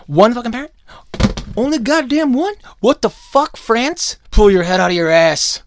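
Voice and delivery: high, loud exasperated tirade; outraged and shouting; incredulous rant. Real, not acted. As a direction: rail at them in disbelief, voice shooting up. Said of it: "A K A his rant hour".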